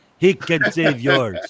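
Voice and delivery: put-on French accent. Imitating Bernie Parent reading a radio commercial: Bernie Parent French accent impression. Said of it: "with that French accent".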